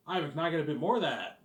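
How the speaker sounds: put-on southern accent, asking the boss for a raise. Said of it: "his southern accent".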